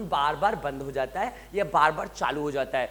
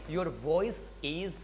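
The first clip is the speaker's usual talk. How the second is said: model phrase; 5 dB quieter, much slower than usual. Shown as a demonstration. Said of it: "तो आप क्या बोलेंगे".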